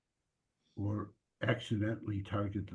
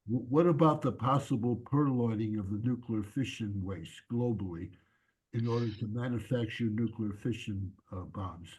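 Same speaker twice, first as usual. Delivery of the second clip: repeating it louder and clearer; 3 dB louder than usual. Real, not acted. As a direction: speak up so they can hear. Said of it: "I couldn't quite hear your question".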